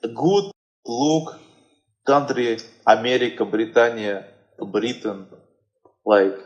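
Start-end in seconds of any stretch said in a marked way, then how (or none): 0.0-5.3 put-on Russian accent. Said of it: "a Russian person would say".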